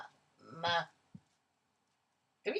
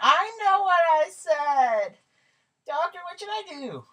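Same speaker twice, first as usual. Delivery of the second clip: snappy; 5 dB louder than usual. Acted. Karen snapping at doctor.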